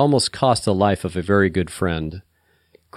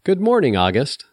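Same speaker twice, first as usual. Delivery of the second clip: high, playful phone greeting; playful sing-out hello; 7 semitones higher than usual. A narrator's reading. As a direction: tease brightly, pitch leaping up then dropping. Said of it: "said a playful voice".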